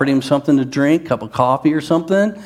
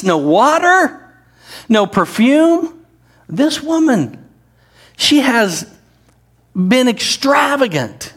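higher, slower rebuke listing each lack; Jesus rebuking; 4 semitones higher, slower than usual. Acted. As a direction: hammer each no, slowly and high.

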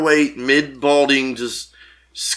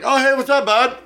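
mock cheerful greeting, pitched up; chummy greeting; 12 semitones higher than usual. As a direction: play the overly friendly stranger saying hi. Military guy's greeting retold.

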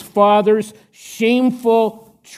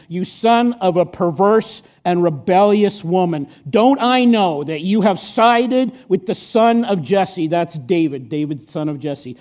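Saul's anger. Acted. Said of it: "Saul's anger flared up at Jonathan".

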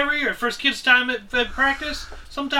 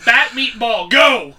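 mock coach command; 6 dB louder, much slower than usual.

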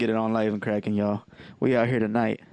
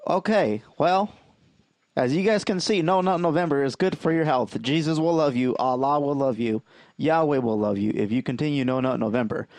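wrestling promo; 2 semitones higher than usual. Acted. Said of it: "a wrestling promo".

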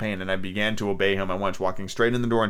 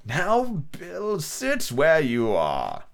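cruel cold voice; 5 semitones higher, much slower than usual. A narrator's reading. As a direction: whisper the threat coldly. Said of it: "a voice so cruel and cold and ugly".

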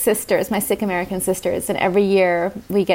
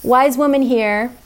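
slow, tender inner wise woman; slower than usual. Acted. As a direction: speak slowly, like soothing your own child. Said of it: "This is what she sounds like".

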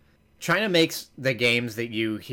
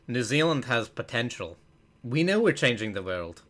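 attempted New Zealand accent. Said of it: "a bunch of New Zealanders come on".

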